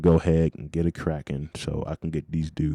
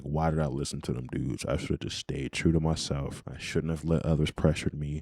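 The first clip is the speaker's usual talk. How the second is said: regretful inner voice; 2 semitones lower, 6 dB quieter than usual. Retold or imitated.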